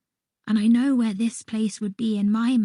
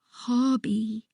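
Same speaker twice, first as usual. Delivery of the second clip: wobbly voice. A narrator's reading. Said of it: "my voice wobbling".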